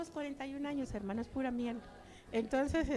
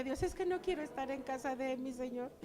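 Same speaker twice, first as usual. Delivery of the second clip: tearful plea. Retold or imitated. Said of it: "así llorando al Señor yo le lloraba".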